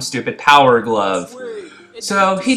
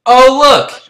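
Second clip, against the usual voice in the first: high, loud fake delight; hammed-up cheer at spotting someone; mock excitement; 9 semitones higher, 10 dB louder than usual.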